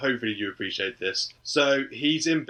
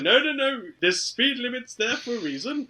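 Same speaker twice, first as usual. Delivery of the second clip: mock cautious driver; 10 semitones higher, 4 dB louder than usual. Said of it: "It's like".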